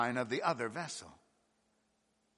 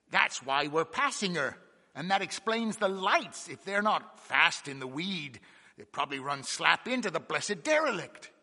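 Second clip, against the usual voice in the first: excited; 3 semitones higher, 4 dB louder than usual. Acted. Second mate explains excitedly.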